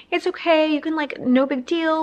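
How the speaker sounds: high-pitched, retold "don't worry about it" voice; kind reassurance. Other parents reassure a mom with crying baby, kindly imitation. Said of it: "so kind".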